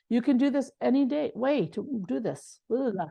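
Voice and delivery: tongue-tied, garbling the phrase and restarting; real flustered slip of the tongue; stumbling over words. Real, not acted. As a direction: trip over the words and blurt nonsense syllables. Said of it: "I'm stuttering over my words".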